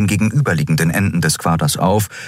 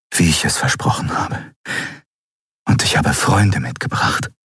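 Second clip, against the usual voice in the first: whisper; 2 semitones lower than usual. A narrator's reading. Returning pupil tells his sleeping master of friends, whispering. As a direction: murmur it privately, barely voiced. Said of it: "flüsterte er".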